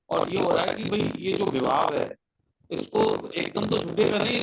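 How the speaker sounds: clipping distorted mic. Real, not acted. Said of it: "आपकी आवाज फट रही है सर".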